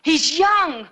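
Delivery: impassioned protest. Acted. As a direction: plead his case, pushing the key words. Sister pleads for condemned brother.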